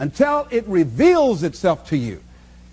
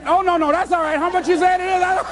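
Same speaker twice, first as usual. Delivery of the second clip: higher, laughing through hurried customer lines; 8 semitones higher than usual. Retold or imitated. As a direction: play the flustered customer while laughing. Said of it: "they used to say".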